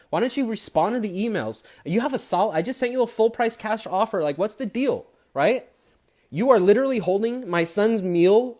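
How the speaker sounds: rising frustrated complaint to the lazy agents; exasperated rant. Retold or imitated. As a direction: demand answers, fed up. Ranting at unresponsive agents.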